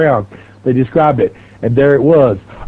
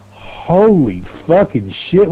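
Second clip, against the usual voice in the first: retold stunned disbelief; 2 semitones higher, much slower than usual. His stunned reaction in the story.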